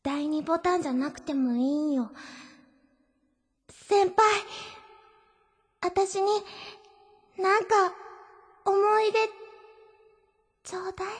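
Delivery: hesitant, teasing plea with long pauses; slightly sexy junior. Acted. Junior hinting to a senior for a keepsake, slightly sexy with long pauses. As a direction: draw it out suggestively, very soft on the last word. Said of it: "ちょっとエッチな感じを出してください".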